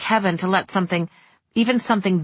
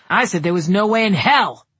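rising into outrage, louder; outraged; 2 semitones higher, 4 dB louder than usual. Acted. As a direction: build to an outraged burst. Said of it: "His voice was outraged".

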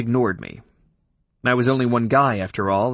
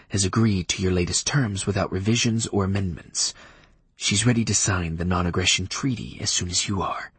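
vampire Leif voice; 2 semitones lower than usual. Acted. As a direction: speak like a cool, stiff old vampire.

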